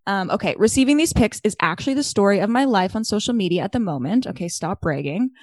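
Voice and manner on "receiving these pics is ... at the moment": lively, measured read-aloud delivery; reading a listener email. Real, not acted. Podcast host reads listener's email to co-host, animated read-aloud. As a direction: read out fan mail with emphatic key words.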